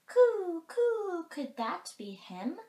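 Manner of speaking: high, drawn-out dove coos easing into a question; cooing mourning dove. A narrator's reading. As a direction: coo loudly like a dove, then ask. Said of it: "asked the mourning dove".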